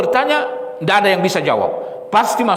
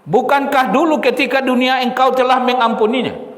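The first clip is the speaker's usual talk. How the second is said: raised, projected preacher's question; insistent plea; 2 semitones higher than usual. Retold or imitated. Servant reminds Allah of past forgiveness, pleading insistently. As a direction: press the appeal in full voice.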